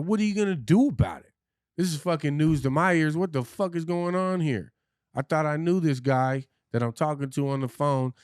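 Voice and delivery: high, loud, yelled demands; furious yelling wife. Retold or imitated. Wife on the phone, demanding what he'll do, furious high yelling. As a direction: shout it up high like an outraged wife.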